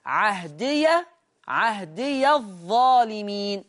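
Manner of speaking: slow recited "عهدي الظالمين" with an audible -ya ending on عهدي; ya opened with fatha. Shown as a demonstration. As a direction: say "عهدي" as ahdiya, drawn out, ya voweled a. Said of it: "ورش يفتح الياء".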